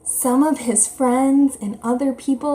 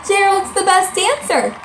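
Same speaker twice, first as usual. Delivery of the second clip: shouted; 7 semitones higher than usual. A narrator's reading. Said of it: "They shouted".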